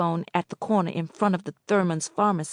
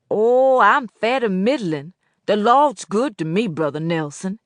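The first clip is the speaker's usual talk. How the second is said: put-on old Boatwright voice; 3 semitones higher, 6 dB louder than usual.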